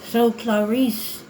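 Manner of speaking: slow, menacing drawn-out villain; lightly voiced creepy villain; Hannibal Lecter. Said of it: "I look like Hannibal Lecter right now".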